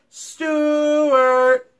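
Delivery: high, loud call across the room. Acted. Family calling for the lost mouse, loud high call. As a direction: call his name out to find him. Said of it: "They called out".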